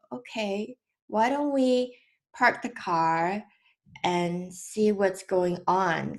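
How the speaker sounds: soft and slow, soothing; calm a crying child down; mother softly soothing her son in the car; gentle reassurance. Retold or imitated. Calming her hurt son.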